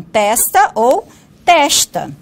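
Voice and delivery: testa with s then with sh; testa variants. Shown as a demonstration. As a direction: say testa both ways slowly. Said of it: "duas formas de transcrição". (testa dita com s e com chiado)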